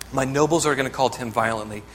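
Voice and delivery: nobles hit hardest, the rest of the line steady; stress on nobles. Acted. Preacher stressing nobles to the congregation, emphatic. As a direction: punch the word nobles.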